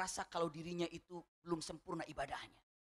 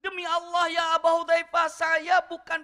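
earnest plea; 10 semitones higher, 10 dB louder than usual. Acted. Umar pleads with Abu Hudzaifah.

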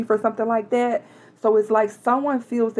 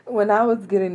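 breaking off to laugh mid-sentence; stifled real laugh, then carrying on; faster than usual. Real, not acted. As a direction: try to get through it despite a laugh. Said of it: "excuse me if I laugh".

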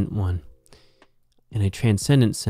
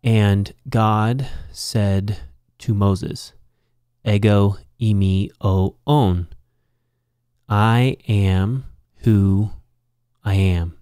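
solemn scripture quote; much slower than usual. Acted. Teacher quoting Exodus to the class, slow and solemn. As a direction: let God's words land slowly.

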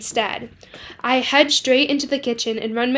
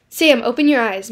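firm call; 6 dB louder than usual. Acted. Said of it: "Mom's voice sounds far away".

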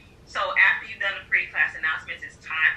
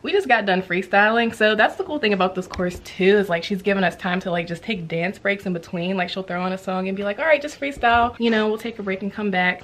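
breathless after dancing; out of breath. Real, not acted. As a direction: talk while catching your breath. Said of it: "So that's why I'm out of breath now".

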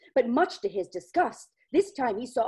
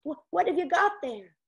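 higher, curious neighbor voice; 5 semitones higher than usual. Acted. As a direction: ask up with friendly curiosity. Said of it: "Mister Henderlin said".

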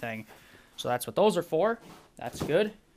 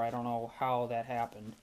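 talking through a sore throat; hoarse, painful throat. Real, not acted. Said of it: "my throat is so sore".

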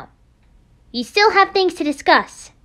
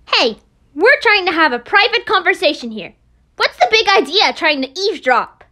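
louder, accusing tone; annoyed confrontation; irritated scolding; 2 semitones lower, 6 dB louder than usual. Acted. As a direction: tell off the eavesdropper. Scolding the eavesdroppers.

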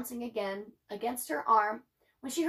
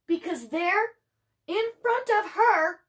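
building suspense; 7 semitones higher, 5 dB louder than usual. A narrator's reading. Building suspense before reveal.

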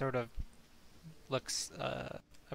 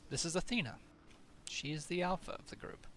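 griffin rider; 5 semitones higher, 4 dB quieter, much faster than usual. Acted. GM voices griffin rider NPC.

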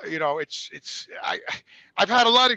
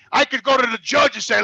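ordinary talk

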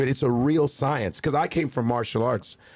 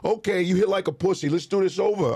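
higher, blunt put-down; scolding trainer; 7 semitones higher than usual. Retold or imitated. Trainer scolding comedian's punches, higher blunt voice. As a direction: tell him he hits weak. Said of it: "trainer scolding".

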